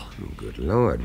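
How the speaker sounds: slow, hushed gasp of wonder; awed whisper. Acted. Guest reacting to the talk of the special, awed whisper. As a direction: whisper it in awe.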